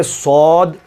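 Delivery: صاد with the final د bounced back; a slow صاد with a rebounding d; bounced ending. Shown as a demonstration. Teacher models the bounce on the final d. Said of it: "ان کے آخر میں آواز کو پلٹایا".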